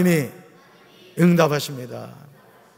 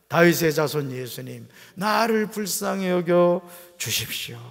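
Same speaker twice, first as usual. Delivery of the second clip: read aloud together; 2 semitones lower, 3 dB quieter than usual. Shown as a demonstration. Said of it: "같이 읽습니다".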